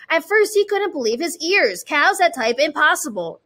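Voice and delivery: put-on bright read-aloud for kids; storytime reading. A narrator's reading. Story narration.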